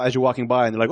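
normal talking voice

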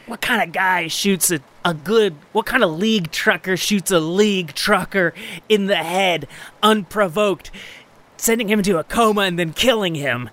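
acted wounded man's outrage; indignant captive. Captive argues back in character.

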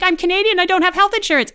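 high, loud mock friend voice; hammed-up hurt friend; mock deadpan complaint. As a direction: squeak it out way up high. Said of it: "She's like".

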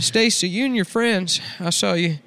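high, pushy redneck uncle lecturing his niece; a sleazy uncle leaning in close; creepy uncle voice. Acted. Uncle voicing scolding niece Stacy.

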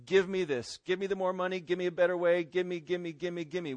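rattled-off list of demands; insistent gimme-gimme chant; demanding. Acted. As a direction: keep demanding in an even, repetitive run. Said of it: "you come and you demand".

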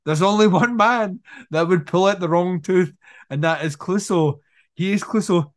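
mock-maniacal villain's deduction; hammed-up, slightly manic declaration; giggling maniac villain. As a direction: build toward a crazed realisation. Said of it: "he's still giggling maniacally".

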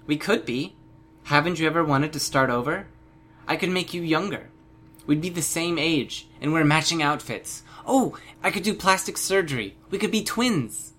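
put-on bubbly little girl selling an idea; eager girl. Bonesaw coaxing Panacea to be twins, eager girlish voice.

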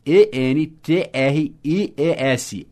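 E N T R I E S spelled letter by letter, slow; spelled out slowly. Shown as a demonstration. Teacher spelling E N T R I E S slowly for the student.

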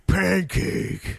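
put-on small child saying pancake; toddler voice. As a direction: imitate a toddler's word. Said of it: "She's like".

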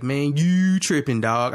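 slow Baltimore drawl on "you"; Baltimore accent. Retold or imitated. Retelling the barbershop dude's words, Baltimore accent. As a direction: imitate a Baltimore barbershop talker, stretching it out. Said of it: "these niggas talking like this".

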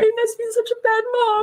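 high, tearful self-blame; mother blaming herself to the investigator, crying. Real, not acted. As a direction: break down as you say it. Self-blame under questioning.

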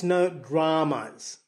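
"dramas" drawn out slowly, Aussie-style; Aussie pronunciation lesson. Shown as a demonstration. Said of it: "bit of speech therapy here".

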